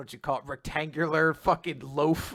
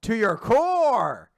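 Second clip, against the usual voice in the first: mild retold shout; 6 semitones higher, 4 dB louder, slower than usual. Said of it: "Andy's shouting out".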